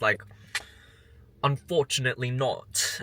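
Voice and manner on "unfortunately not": lightly imitated snippy British man; pissy British. Shopper imitates the cashier refusing her, lightly pissy British. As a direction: put on a mildly pissy British accent. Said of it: "responds in, like, a pissy British voice".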